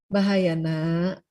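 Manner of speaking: put-on slow, calm warning to a child; firm but gentle. Shown as a demonstration. Mother gently refuses her child's late night out, slow and calm. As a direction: say no slowly and kindly. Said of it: "Itu tegas, tapi lembut disampaikannya".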